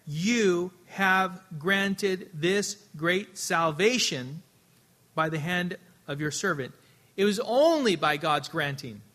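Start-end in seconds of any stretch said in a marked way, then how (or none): 0.1-6.7 slow emphatic reading. Shown as a demonstration. Preacher slowly stressing Samson's prayer to the congregation. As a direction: stretch every word out slowly and deliberately. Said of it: "Verse eighteen".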